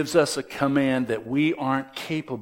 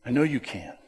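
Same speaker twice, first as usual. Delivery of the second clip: reassuring voice of God; 4 semitones higher than usual. Retold or imitated. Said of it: "He's saying".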